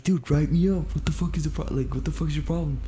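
high, loud, indignant comeback; heated replay of an argument, speeding up; retold angry retort. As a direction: act out snapping back at your boss. Acting out own retort in quarrel.

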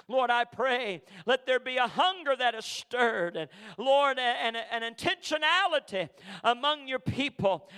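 earnest, measured prayer voice. Real, not acted. Pastor praying over the church, earnest and steady. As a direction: pray over the congregation steadily.

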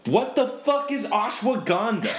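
high, baffled disbelief; laughing what-the-heck; incredulous. Real, not acted. Incredulous at odd word.

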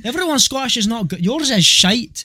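high-pitched mock Scottish; Scottish accent. Shown as a demonstration. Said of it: "If I wanna do a Scottish accent".

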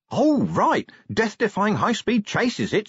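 high, swooping, eager coachman; rising enthusiasm. A narrator's reading. Young coachman learning Vimes wants a chase, increasingly enthusiastic. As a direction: get keener with every phrase. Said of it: "enthusiasm rising".

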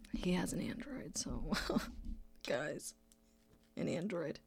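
hushed, scandalised whisper; conspiratorial whisper. Acted. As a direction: whisper it like a shameful secret. Mock-confiding about brother's phone.

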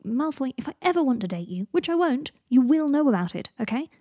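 exasperated. A narrator's reading. Potter denying to Draco that it's a date, exasperated. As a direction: set him straight, voice climbing mid-sentence.

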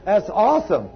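chuckling through the words with delight; laughing. Real, not acted. Delighted at girl's remark.

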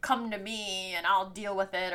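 a lightly voiced fussy older lady; motherly warning from an older woman, slightly put on; Miss Crane voice. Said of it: "your Miss Crane voice".

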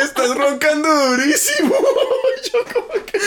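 quoting her line through laughter; laughing. Retold or imitated. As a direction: repeat it while cracking up.

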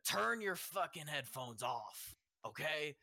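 slow, lightly rasped order; raspy voice. Retold or imitated. Construction worker repeating himself to storyteller, mildly raspy. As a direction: imitate a raspy worker, drawing it out. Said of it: "in a raspy voice".

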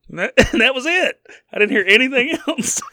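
gasping the words out between laughs; laughing. Real, not acted. Laughing fit over missed rant.

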